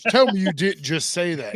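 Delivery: light Scottish accent, barely put on; a hint of Scottish accent; understated Scottish accent; mock Scottish accent. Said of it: "in a Scottish accent".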